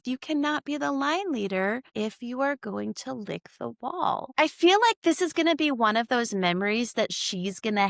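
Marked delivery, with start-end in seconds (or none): 0.1-4.3 blurted teacher rule. Retold or imitated. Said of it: "before I could even think".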